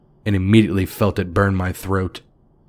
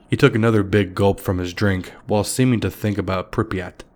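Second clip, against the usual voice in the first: ordinary delivery, nothing marked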